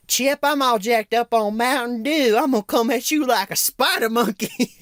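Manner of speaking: put-on hyped-up kid.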